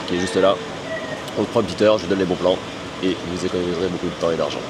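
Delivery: rough, worn-out voice after a night out; hoarse voice. Real, not acted. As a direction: talk through a tired, hoarse throat. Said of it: "j'ai la voix cassée". (voix cassée)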